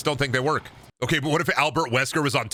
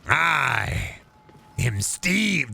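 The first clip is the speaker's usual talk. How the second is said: mock Steve reveal; much slower than usual. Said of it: "That's how the".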